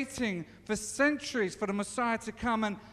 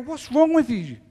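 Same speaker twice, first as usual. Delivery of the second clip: loud, disbelieving "What's wrong with you?"; the disciples scolding the stranger; incredulous; 2 semitones higher, 4 dB louder than usual. Retold or imitated. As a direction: scoff at him like he's clueless. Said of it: "they look at him and they go".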